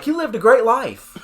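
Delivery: high, loud old-timer impression; hammed-up old man, laughter in the voice. Old bar patron praising Thomas Marr, comic old-man voice. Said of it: "some old sixty-year-old man was like".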